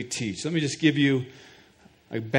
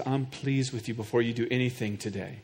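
gentle voice of God; 4 semitones lower, 7 dB quieter than usual. Acted. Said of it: "God says".

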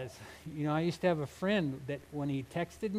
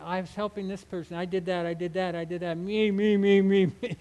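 lightly hammed-up braggart, louder on me me; mock bragging; 3 dB louder than usual. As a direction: boast smugly like a showboat. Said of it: "this kind of this showboat".

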